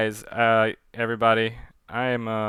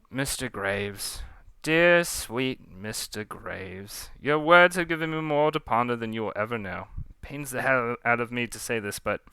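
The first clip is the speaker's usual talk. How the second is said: condescending pirate captain; 5 dB quieter than usual. Acted. Captain answering Graves's plea, condescending. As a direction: let a naive underling down with feigned regret.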